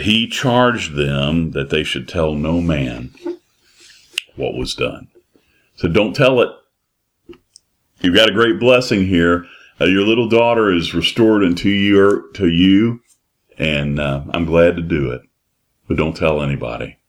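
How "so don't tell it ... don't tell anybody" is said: Jesus to parents. Acted. Preacher voicing Jesus to the parents, a lightly raised urging.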